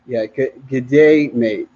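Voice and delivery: a light, hammy stab at an Australian accent; lightly put-on Australian greeting. Shown as a demonstration. Jet ski vlogger to viewers, bad mock Australian accent. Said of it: "trying to sound like I'm from Australia".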